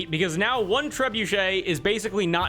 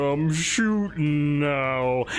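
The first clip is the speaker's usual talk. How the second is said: blinded trebuchet; 4 semitones lower, much slower than usual. Acted. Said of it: "hear one trebuchet go".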